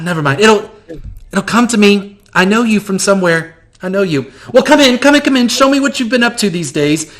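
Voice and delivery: high, gushing theatrical voice; flamboyant shopkeeper. Acted. GM greeting the player as eccentric shopkeeper, high and gushing. NPC rambling, inviting them in.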